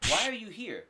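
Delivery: mildly annoyed why are you here; after a rough day. Shown as a demonstration. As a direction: snap it tiredly at someone. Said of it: "had a really rough day".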